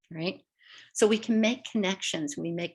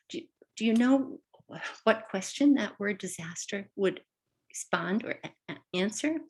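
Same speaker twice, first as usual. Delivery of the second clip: teacher questioning; 3 semitones higher than usual. Retold or imitated. Teacher prompting the class for the word's question, lightly voiced. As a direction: coax an answer from students. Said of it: "I might even say to you".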